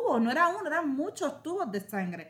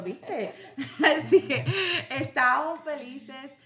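laughing; slower than usual. Real, not acted. Recalls the nurse's surprise happily.

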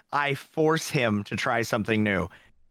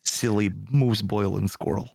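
slow, lower mock Russian accent; 4 semitones lower, slower than usual. Host doing voices for friends, cartoon Russian accent. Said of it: "he turns into a Russian".

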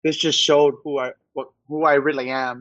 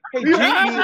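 high, laughing fake American accent; butchered American accent; 13 semitones higher, 3 dB louder than usual. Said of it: "butchering the English accent".

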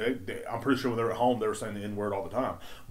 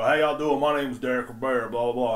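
redneck character voice; 3 dB louder than usual. Shown as a demonstration. Greeting customers in mom's convenience store, lightly voiced redneck. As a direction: put on a slight country-man voice. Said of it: "and I'd do this voice".

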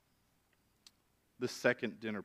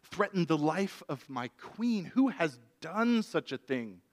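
louder, higher outraged king's cry; upset king; 5 semitones higher, 4 dB louder than usual. Acted. King outraged at the threat to his queen, crying out louder and higher. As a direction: demand who dared threaten her, indignant. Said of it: "the king is upset".

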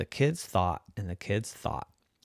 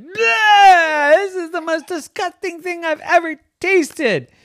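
high, loud gagging bleh; disgusted turtle; 12 dB louder, slower than usual. Acted. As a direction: spit it out in disgust. Turtle tastes mint.

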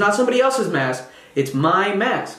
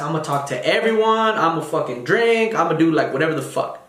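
party mode. Retold or imitated. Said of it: "let me put on my party face".

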